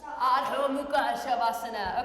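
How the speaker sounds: "Adho Mukha Shavasana" spelled out slowly, each syllable clear, rising at the end; slow Sanskrit pose name. Shown as a demonstration. Yoga teacher models the name for kids, slow and clear. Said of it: "Can you say that?".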